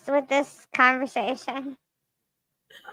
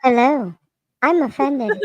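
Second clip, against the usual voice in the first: robot voice. Shown as a demonstration. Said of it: "the flatline voice like that".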